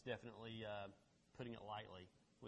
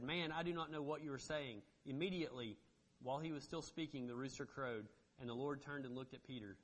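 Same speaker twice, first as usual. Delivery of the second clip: measured, emphatic Bible reading aloud; scripture reading; 3 dB louder than usual. Acted. Pastor reads Peter's denial to the congregation, emphatic scripture reading. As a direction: read the passage out firmly to a congregation.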